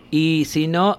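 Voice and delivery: ordinary delivery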